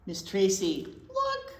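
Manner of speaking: eager calling out; excited call. Real, not acted. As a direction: point it out with delight. Calls excitedly to co-host.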